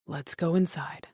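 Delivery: hushed detective; gentle. A narrator's reading. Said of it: "said the detective".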